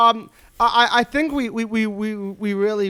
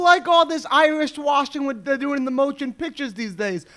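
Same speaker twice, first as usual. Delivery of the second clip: lightly voiced old-time complainer; a hint of a grumbling old-timer, pitched up; 5 semitones higher than usual. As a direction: play at being an indignant old-timer. Parodies a grumbler from back then.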